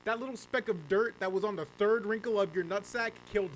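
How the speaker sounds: high, loud, indignant accusation; mock outrage. Streamer blames the killer for a speck of dirt, in mock outrage.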